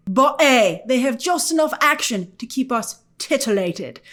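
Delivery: lightly voiced tough-guy impression; a hint of a menacing antihero; Butcher voice. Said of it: "that's my Butcher impression".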